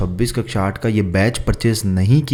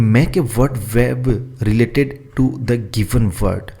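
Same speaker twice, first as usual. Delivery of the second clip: very slow, word by word for copying; slow dictation; much slower than usual. Shown as a demonstration. Teacher dictating the question to students, slow and careful. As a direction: read it out slowly so students can write. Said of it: "वो अपने को इसमें बताना है".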